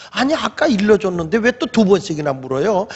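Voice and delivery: mildly needling questions; taunting. Retold or imitated. Healed man needling his questioners, taunting. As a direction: tease them with retold cheek. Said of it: "이렇게 또 약 올렸어".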